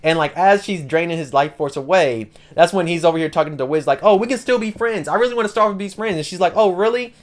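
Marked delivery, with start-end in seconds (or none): 4.0-6.2 high-pitched mock pleading; wheedling, voice lifted high. Duke pleading while being drained. 6.5-7.1 high, naive little question; credulous, voice lifted; gullible. Retold or imitated. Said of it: "And she's being gullible".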